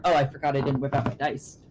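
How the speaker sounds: usual speaking voice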